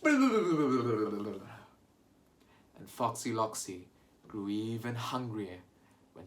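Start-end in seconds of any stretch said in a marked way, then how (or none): 0.0-1.5 laughing grumble. Shown as a demonstration. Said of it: "Can we all go".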